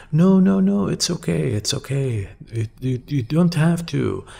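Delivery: high-pitched, insistent friend reassuring; hurried reassurance. Retold or imitated. Friend rushing to reassure the speaker about the dress code, high-pitched reassurance. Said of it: "They immediately said".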